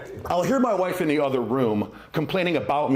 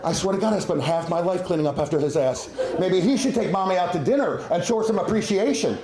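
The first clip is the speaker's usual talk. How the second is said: cute dog voice; 3 semitones higher than usual. Retold or imitated. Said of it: "that really cute voice that we use when we're talking to dogs".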